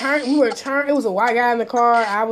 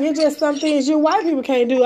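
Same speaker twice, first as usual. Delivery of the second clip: retold retort; 4 semitones higher than usual. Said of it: "and I'm like".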